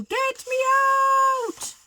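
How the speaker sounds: high-pitched mock shout for help. A narrator's reading. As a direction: call out from inside the dinosaur. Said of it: "he's shouting".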